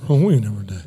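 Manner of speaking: low, run-together country-neighbor voice; imitating a man's low, garbled answer; neighbor's cryptic mumble. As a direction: drop deep and blur the words together. Neighbor's slurred, misheard answer acted out.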